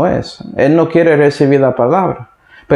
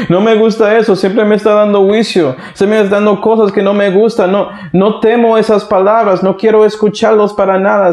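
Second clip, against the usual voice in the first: higher, whiny complaint from a spoiled king; king sulking about the prophet he hates; petulant king; 4 semitones higher than usual. Acted. Preacher voicing King Ahab, petulant and higher.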